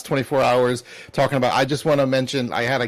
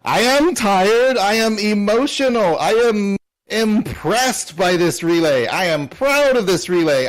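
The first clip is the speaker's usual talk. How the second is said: fervent declaration; 5 semitones higher than usual. Real, not acted. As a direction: proclaim each one like a rallying cry.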